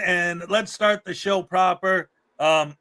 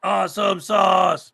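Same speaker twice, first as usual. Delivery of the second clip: excited cheer; 3 dB louder, much slower than usual. Real, not acted. Host cheers cohost's news.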